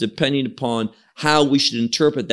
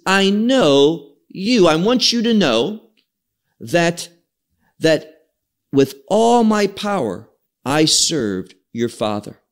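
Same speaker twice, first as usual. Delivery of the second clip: literal emphatic rendering; 2 semitones higher than usual. Shown as a demonstration. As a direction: retell the verse with more insistence. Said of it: "So what it literally says is".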